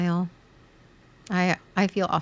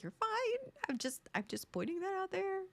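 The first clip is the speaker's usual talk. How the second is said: much softer, breathy near-whisper; imitated whisper; 12 semitones higher, 13 dB quieter than usual. Husband quietly backing down after her outburst, whispered. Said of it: "he's like".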